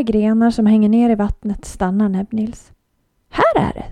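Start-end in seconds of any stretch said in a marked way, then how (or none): 3.3-3.9 very high whispered shrew; squeaky whisper. A narrator's reading. Shrew whispers to Olivia at the spruce, very high whisper. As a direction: breathe it out tiny and secret.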